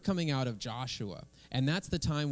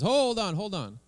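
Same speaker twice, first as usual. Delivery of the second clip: high squeaky cartoon bear voice, much higher; alarmed bear, pitched way up; talking bear; 9 semitones higher, 5 dB louder than usual. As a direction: play the startled bear pleading with a squeal. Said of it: "and the bear says".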